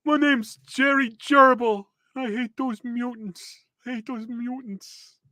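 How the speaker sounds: high, slow gerbil voice; put-on high-pitched rodent villain; gerbil mutant. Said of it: "a gerbil".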